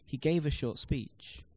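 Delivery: "gave" and "speech" stressed, "a short" lighter; steady beats on "gave" and "speech"; stress-timed rhythm. Shown as a demonstration. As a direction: keep the beat on "gave" and "speech", fit "a short" between. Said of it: "The greater the number of unstressed syllables".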